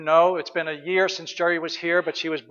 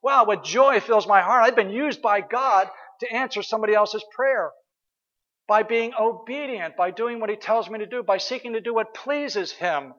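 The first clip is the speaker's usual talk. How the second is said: joyful inner voice; 4 semitones higher than usual. Retold or imitated. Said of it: "And I'm like".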